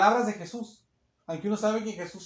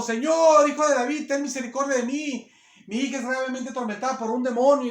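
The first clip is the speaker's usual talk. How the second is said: high, loud desperate plea to the Lord; pleading woman; 3 semitones higher, 4 dB louder than usual. Acted. Preacher voicing the mother begging Jesus, loud and high pleading. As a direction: cry out for mercy like a desperate mother.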